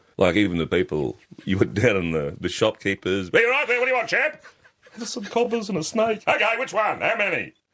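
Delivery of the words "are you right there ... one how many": very high, continuous shouting. Retelling how shopkeepers talked to children: imitating shopkeepers yelling. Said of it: "just yelling constantly".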